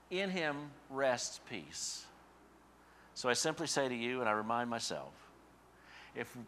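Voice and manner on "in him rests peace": slow resolution. Real, not acted.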